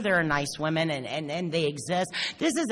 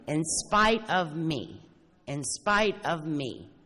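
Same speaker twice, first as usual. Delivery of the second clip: "in spite of me" very slow, spite stressed; slow emphasis; much slower than usual. Shown as a demonstration. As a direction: draw out "in spite of me" slowly. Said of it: "repeated slowly".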